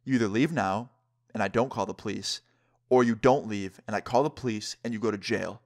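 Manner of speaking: measured, imitated warning with pauses between options; real serious. Basketball player warning the skaters, real serious. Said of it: "this guy gets real serious".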